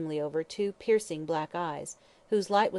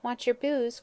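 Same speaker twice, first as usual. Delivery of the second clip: put-on elfish child; 6 semitones higher than usual. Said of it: "cried the child with an elfish laugh".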